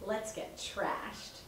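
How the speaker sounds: slow unvoiced whisper. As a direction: whisper the catchphrase slowly. Whispered catchphrase, caught by parent.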